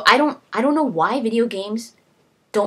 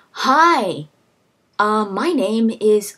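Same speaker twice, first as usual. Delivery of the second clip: bad voice actor; 3 dB louder, much slower than usual. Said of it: "some freaking idiot going".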